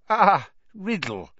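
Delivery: put-on high, slow old man's greeting; feeble old headmaster. A narrator's reading. Old headmaster greets the boy at his door, feeble voice. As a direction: greet a pupil as an aged wizard.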